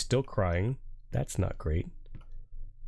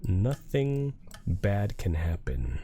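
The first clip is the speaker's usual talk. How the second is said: mock reassuring; much slower than usual. Real, not acted. Sarcastic slow reassurance.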